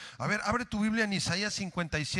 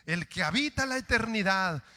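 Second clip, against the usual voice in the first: slow reading; 3 semitones higher, 5 dB louder than usual. Shown as a demonstration.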